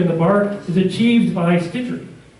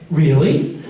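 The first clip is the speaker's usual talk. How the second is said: surprised; 3 dB louder than usual. Retold or imitated. Artist's surprised reply.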